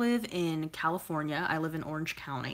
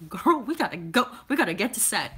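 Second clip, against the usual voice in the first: excited; 5 semitones higher, 5 dB louder than usual. Retold or imitated. Telling friend to rush to filming.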